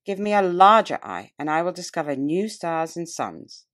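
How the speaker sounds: measured, solemn public-speech delivery; oratorical reading. Acted. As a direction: declaim it like a nineteenth-century orator addressing a hall. Reads oration aloud.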